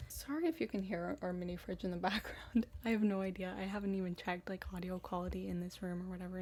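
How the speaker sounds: talking through a mouthful of mousse; chewing while talking casually. Real, not acted. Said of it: "me talking while I eat some chocolate mousse".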